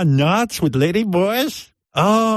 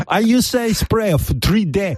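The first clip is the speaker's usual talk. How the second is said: put-on high girly voice; chirpy lady impression; man doing a woman's voice; 6 semitones higher than usual. Girly voice before the drop.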